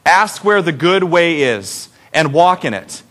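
slow, measured congregational reading; deliberate, evenly paced Bible recitation; reading scripture aloud. Acted. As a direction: lead the room phrase by phrase. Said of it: "Let's read it nice and loud".

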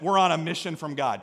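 light Chicago accent. Shown as a demonstration. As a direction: put on your best Chicago accent. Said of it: "my best Chicago accent".

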